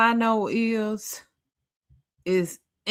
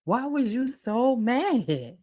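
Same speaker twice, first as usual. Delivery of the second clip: talking to Tyra; 4 semitones higher than usual. Retold or imitated. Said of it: "I'm like".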